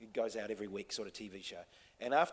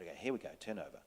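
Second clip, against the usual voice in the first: soft, low, hushed set call; gentle tone; 5 semitones lower, 6 dB quieter, much faster than usual. Retold or imitated. First AD quietly cueing an actor who is ready, gentle. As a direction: call it gently so as not to break the moment. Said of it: "in that tone, not".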